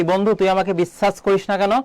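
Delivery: বিশ্বাস with hissed s sounds, as bissas; mock mispronunciation. Shown as a demonstration. Teacher mimics asking a friend about trust, বিশ্বাস wrongly as bissas. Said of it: "আমরা কি কখনো বলি".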